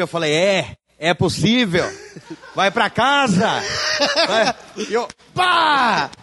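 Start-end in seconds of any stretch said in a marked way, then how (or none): 0.3-4.6 slow, chuckling reassurance; laughing. Retold or imitated. Clown reassuring crying patient. 4.9-6.1 slow, drawn-out triumphant shout; mock shout. Clown's triumphant moment.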